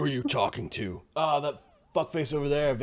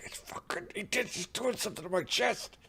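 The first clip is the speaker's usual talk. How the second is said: hushed whisper, much higher pitch; 8 semitones higher, 9 dB quieter than usual. Answering a caller who demands whispering, insisting they already are, whispering. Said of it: "I am whispering".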